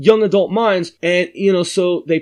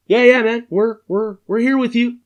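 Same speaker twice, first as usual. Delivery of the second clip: put-on higher, eager teen voice; cocky kids; 7 semitones higher than usual. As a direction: play it like a smug kid. Kids voiced answering on phone.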